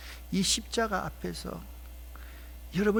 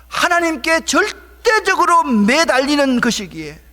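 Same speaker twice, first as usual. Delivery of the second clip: loud, high pulpit cry; forceful, raised-pitch preacher; impassioned preaching; 10 semitones higher, 13 dB louder than usual. Real, not acted. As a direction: throw your whole voice into the exhortation.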